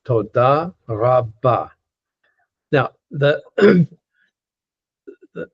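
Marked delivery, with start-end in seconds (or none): 0.0-1.7 Toda rabba slow, each word end-stressed; slow teacher's demo of Toda rabba; careful model pronunciation. Shown as a demonstration. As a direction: draw out Toda rabba syllable by syllable for learners. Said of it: "you add to it rabba".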